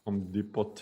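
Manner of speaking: Home Depot as "omm dee-pot"; foreign mispronunciation. Shown as a demonstration. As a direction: clip Home short and sound the t in Depot. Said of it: "my favorite is".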